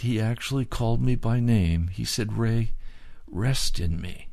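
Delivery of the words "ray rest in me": kind and gentle. Retold or imitated. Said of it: "in a very kind and gentle voice".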